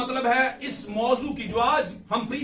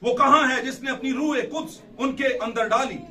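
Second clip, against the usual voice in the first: scripture reading; 3 semitones higher than usual. Acted. Reads scripture aloud.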